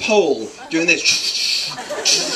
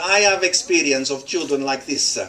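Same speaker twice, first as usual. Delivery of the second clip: lightly imitated Italian accent, lower pitch; 4 semitones lower than usual. Quoting the Italian girl about the baby, Italian accent. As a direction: put on a hint of an Italian accent. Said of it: "said it with an Italian accent".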